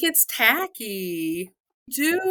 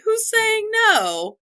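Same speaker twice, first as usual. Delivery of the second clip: much higher and slow, disbelieving; incredulous; 13 semitones higher, much slower than usual. Real, not acted. Ranting to cohosts about public proposals, incredulous and slow. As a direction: stretch it out in disbelief.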